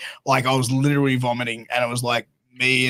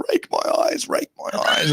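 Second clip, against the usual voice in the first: imitated yell. Hurt wrestler calling out to partner mid-match, imitated yell. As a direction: imitate a high, strained call for help. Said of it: "yelling out to me".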